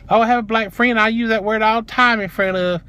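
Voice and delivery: high-pitched mock defensiveness; mocking imitation. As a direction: parrot her excuse up high. Mimics the clerk's excuses.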